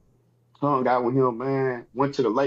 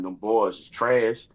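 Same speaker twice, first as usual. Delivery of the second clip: slow, drawn-out "trash"; "trash" leaned on slowly; emphasis on TRASH; 3 semitones lower, much slower than usual. Retold or imitated. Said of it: "I put my emphasis on words".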